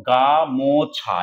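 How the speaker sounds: গা, মো, ছা as three separate open syllables. Shown as a demonstration. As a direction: break it into গা, মো, ছা, each on its own. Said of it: "তাহলে দল এখানে কটা রয়েছে".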